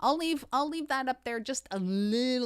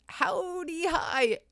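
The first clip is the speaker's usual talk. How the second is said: put-on best Southern accent; 8 semitones higher, 5 dB louder than usual. Streamer reading out a viewer's chat greeting, Southern accent. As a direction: put on a big Southern howdy. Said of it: "That was my best Southern accent".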